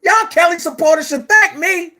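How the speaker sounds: a hint of mocking Hollywood Next, with a chuckle. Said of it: "in my Hollywood Next voice".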